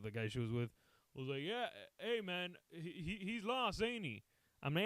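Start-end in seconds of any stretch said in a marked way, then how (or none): 1.4-4.2 high, softened put-on voice; concerned bystander guy. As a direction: imitate a hesitant onlooker, high and quiet. Male bystander acted in story.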